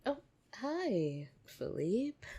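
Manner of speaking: high, bright, caught-out hello; flustered greeting. Acted. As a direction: cover yourself with a sudden cheery hi.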